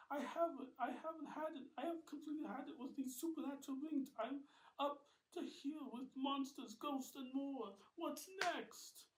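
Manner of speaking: high, loud and exasperated; fed-up rant. Acted. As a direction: vent in frustration.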